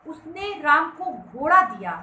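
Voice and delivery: घोड़ा hit loudly after a measured lead-in; stress on घोड़ा. Shown as a demonstration. Teacher reading the same sentence differently, stress on घोड़ा. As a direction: build to a punched घोड़ा. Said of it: "थोड़ा अलग तरीके से पढ़िए".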